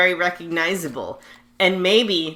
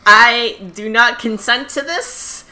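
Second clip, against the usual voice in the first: mock formal objection; 5 semitones higher, 7 dB louder, slower than usual.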